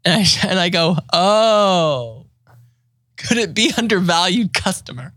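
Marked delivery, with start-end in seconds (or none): 1.1-5.1 a touch of hopeful, higher voice; sheepish guess. Retold or imitated. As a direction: timidly try the odd name. Retelling his own hopeful guess.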